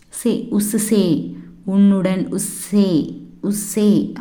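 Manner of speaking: "உஸ் சே" slowly, as two separate syllables; model pronunciation. Shown as a demonstration. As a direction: draw out "சே" for learners. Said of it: "அப்படின்னு சொல்லணும்".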